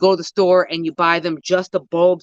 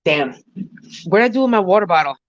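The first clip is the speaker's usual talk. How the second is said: ordinary talk, nothing marked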